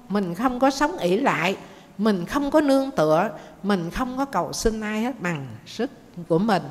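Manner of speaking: insist, voice rising on có; firm urging. Acted.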